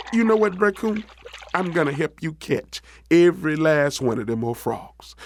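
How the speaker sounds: lightly voiced eager rabbit; helpful Brer Rabbit. Rabbit offers Coon his help.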